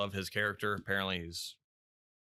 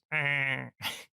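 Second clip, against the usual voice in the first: short mock goat bleat; brief imitation of a goat's scream; imitated goat scream; 3 semitones higher than usual. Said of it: "or a scream or whatever".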